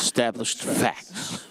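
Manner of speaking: slow, drawn-out ESTABLISHED FACTS; emphatic ESTABLISHED FACTS. Retold or imitated. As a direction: echo the announcer, spacing out ESTABLISHED and FACTS. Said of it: "interesting emphasis on facts".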